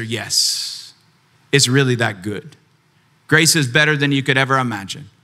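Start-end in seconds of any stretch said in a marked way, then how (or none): 0.0-2.6 assured answer. Retold or imitated. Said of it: "And I'm gonna answer".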